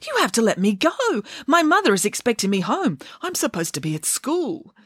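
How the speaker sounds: high, pleading protest; indignant demand. Acted. Caged puppet pleads with ringmaster to let go, indignant demand. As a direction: insist in a high little voice. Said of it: "demanded Bramwellio".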